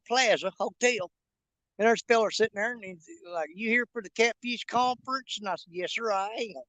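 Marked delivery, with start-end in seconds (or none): 3.5-5.4 imitated country hick accent; put-on country hick talk. Man in elevator asks a stranger, imitated country hick accent. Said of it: "We both talk like that". 5.7-6.6 soft imitated country hick accent; put-on country hick talk. Answering a stranger in the elevator, put-on country hick accent. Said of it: "We both talk like that".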